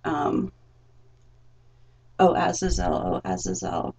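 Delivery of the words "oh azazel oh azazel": loud pleading wail; mock anguished calling out; crying out. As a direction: cry out the name in anguish. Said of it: "and crying out".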